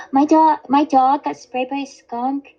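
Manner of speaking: whiny high mock panic; high-pitched imitation. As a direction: squeal the bad news in her voice. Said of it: "your higher pitched voice imitating people".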